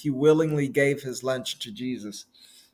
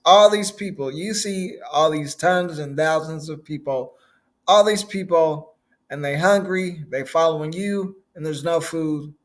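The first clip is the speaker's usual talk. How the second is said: mildly worried plea, raised at first; fretting disciples; 3 semitones higher, 3 dB louder than usual. Retold or imitated. Disciples fretting to Jesus over hungry crowds, mildly worried. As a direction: plead the problem to the boss.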